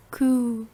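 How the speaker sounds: long, gently falling coo; dove coo. Shown as a demonstration. Teacher demonstrating animal sounds, drawn-out dove coo. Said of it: "Animal sounds".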